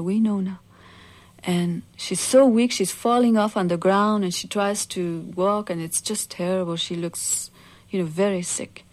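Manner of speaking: ordinary delivery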